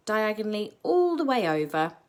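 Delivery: ordinary talk, nothing marked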